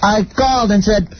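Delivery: William Shatner. Pretend. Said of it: "is William Shatner here to do, uh, Priceline dot com".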